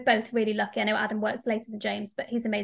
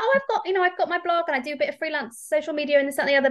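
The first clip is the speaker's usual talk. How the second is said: higher, sheepish rundown of her jobs; lightly mimicking her own embarrassed answer; awkward self-quote; 4 semitones higher, faster than usual. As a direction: mumble through the list as if embarrassed.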